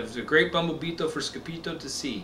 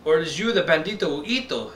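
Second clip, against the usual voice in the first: crying out; 3 semitones higher than usual. Acted. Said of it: "they cried".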